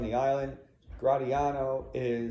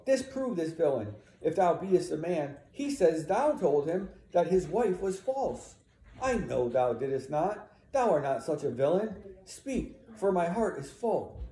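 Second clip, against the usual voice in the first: raised, insistent appeal; pleading challenge; 5 semitones higher than usual. Acted. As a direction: press the husband to deny it. Emilia demands Iago deny it.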